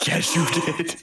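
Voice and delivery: breathy teasing whisper. Real, not acted. Friend accusing him of a bad joke, whispered. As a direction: hiss it back at him.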